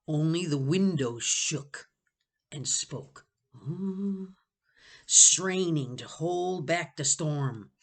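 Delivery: slow, savoring each word; slow dramatic reread. Shown as a demonstration. Reader rereading the storm line slowly for drama. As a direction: linger over the storm line. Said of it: "Only the, it says".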